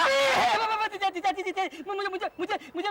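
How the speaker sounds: frightened, stuttering repeats; panicked stammering. Acted. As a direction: stammer as if about to be beaten. Threatened with a real fight.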